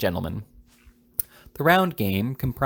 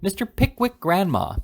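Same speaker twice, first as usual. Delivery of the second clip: screaming call; 10 semitones higher than usual. A narrator's reading. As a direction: scream it so the deaf grandmother hears. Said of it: "screamed both the young ladies".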